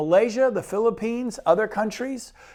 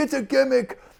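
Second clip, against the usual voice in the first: put-on best-effort New Jersey accent, higher pitch; 5 semitones higher than usual. Retelling what a guy from New Jersey said about a stock award, the speaker does a New Jersey accent. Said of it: "I'm trying to do my best New Jersey accent".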